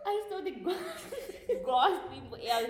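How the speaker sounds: laughing while telling. Real, not acted.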